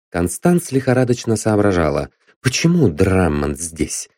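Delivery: usual speaking voice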